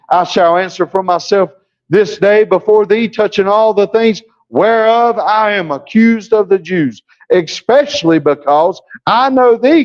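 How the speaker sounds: eager, animated reading; Paul answering the king, eager and lively; lively preacher's Paul. Shown as a demonstration. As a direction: deliver it like Paul meant it. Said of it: "No, that ain't how Paul did it".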